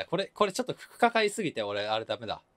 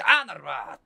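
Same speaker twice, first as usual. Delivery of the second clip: Kansai reply; 5 dB louder than usual. Retold or imitated. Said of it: "って言ったら、多分普通だった".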